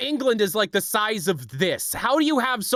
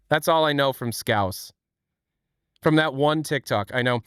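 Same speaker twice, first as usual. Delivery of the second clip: normal talking voice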